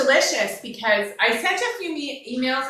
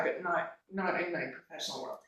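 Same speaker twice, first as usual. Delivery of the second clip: holding back tears; 5 semitones lower, 14 dB quieter than usual. Real, not acted. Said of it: "I'm gonna start crying".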